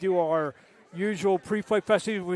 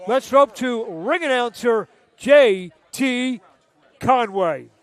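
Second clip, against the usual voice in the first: hyped handoff; 4 semitones higher, 7 dB louder, slower than usual. Acted. Handing off to ring announcer.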